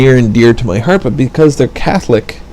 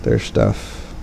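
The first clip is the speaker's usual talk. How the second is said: muttered aside; 12 semitones lower, 6 dB quieter than usual. Real, not acted. Muttered under breath.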